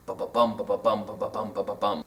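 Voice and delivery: low "ba-ba-bum", two weak beats then a strong bum; anapestic beat. Shown as a demonstration. Teacher sounding out anapests, low chanted "ba-ba-bum" stressed on "bum". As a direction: tap out each "ba-ba-bum", landing on "bum". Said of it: "It's anapestic tetrameter".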